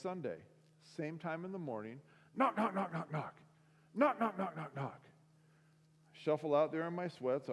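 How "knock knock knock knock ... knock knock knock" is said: imitated knocking.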